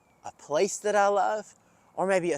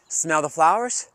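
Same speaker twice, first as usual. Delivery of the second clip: calm breathing guide. Shown as a demonstration. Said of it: "take three deep breaths".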